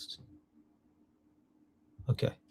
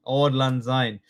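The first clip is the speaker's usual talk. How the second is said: lightly put-on Scottish accent; a touch of Scottish; slower than usual. Shown as a demonstration. Teacher repeating the song title for class, light Scottish accent. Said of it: "Give me your best Scottish accent".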